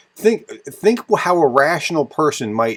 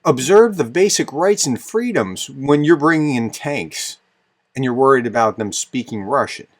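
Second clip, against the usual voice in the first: raised, louder, indignant throwing his words back; indignant retort; 4 dB louder than usual. Real, not acted. Vlogger rebutting the Russian envoy, indignant and louder. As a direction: hurl the phrase back at him.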